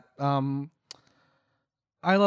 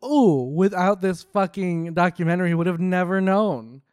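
sarcastic. Real, not acted. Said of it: "that's being sarcastic".

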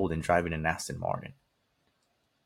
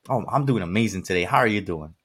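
high-energy greeting; 4 dB louder than usual. Retold or imitated. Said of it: "start the day with a high level of energy".

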